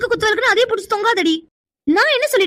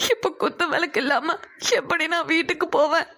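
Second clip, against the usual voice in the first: softer, tearful voice; crying; 3 semitones lower, 4 dB quieter than usual. Acted. Girl who lost the lamp answering the boy, tearful. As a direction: speak through tears, quietly. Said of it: "இன்னமும் அழுதுட்டு தான் இருக்கியா நீ".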